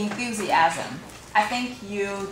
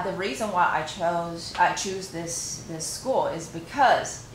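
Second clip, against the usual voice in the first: slow model sentence; slower than usual. Shown as a demonstration. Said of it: "You can say".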